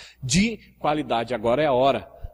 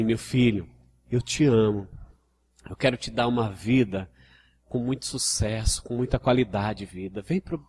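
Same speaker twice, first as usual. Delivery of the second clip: gentle Jesus; 4 semitones lower, 3 dB quieter than usual. Retold or imitated. Jesus inviting his child gently, soft and tender. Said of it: "é gentilmente".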